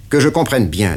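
the boss pinning down the deal; interrogating patron; stern boss. Acted. Patron voiced in story.

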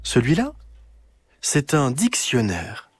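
lightly voiced grandmother. Grandmother explaining the dictionary to Clara, gently.

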